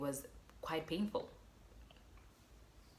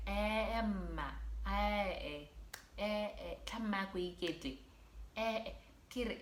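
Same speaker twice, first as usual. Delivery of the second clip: lightly voiced calm nurse, higher; a hint of a chill nurse; 5 semitones higher than usual. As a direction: mimic the unbothered nurse. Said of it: "so calm".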